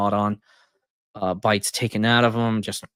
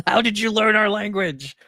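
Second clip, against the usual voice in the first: amazed; 10 semitones higher than usual. Retold or imitated. Vikings amazed at his language.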